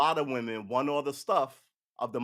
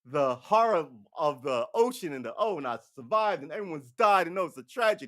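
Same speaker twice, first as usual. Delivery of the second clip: mock grief; 3 dB louder than usual. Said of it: "He's like".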